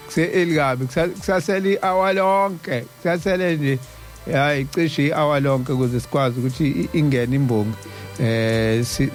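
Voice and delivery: normal talking voice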